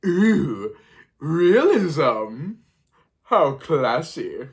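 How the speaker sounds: cooing with exaggerated airs; put-on swooning approval, drawn out at the end; mock-impressed audience. Reviewer voices the Scream audience reacting, mock-impressed. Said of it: "But the audience is like".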